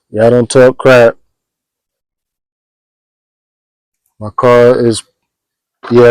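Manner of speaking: talking while lying under a car. Real, not acted. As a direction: speak on your back under a car. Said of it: "now I'm under the car".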